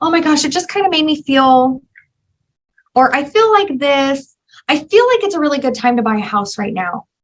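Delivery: emotive, gushing, heart-on-sleeve chatter. Demonstrating how an emotion-driven personality type talks, showing lots of emotion. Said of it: "show more emotion".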